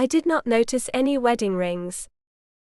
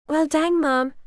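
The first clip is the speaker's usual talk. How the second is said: put-on phony Southern accent; 5 semitones higher than usual. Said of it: "with a very phony Southern accent".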